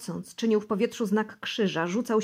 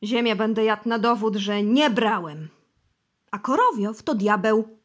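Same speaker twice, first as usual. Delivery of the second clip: desperate vow; 8 dB louder than usual. Acted. Bosy on his knees swears to the interrogators, loud and desperate. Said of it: "beknął".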